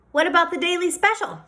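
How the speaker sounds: a father asking about the special; curious father. A narrator's reading. Father asks waitress.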